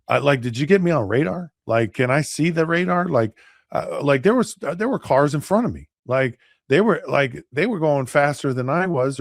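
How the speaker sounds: mock defensive pleading; acted protest. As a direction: argue your way out, imitating a flustered driver. Retold arguing with the officer.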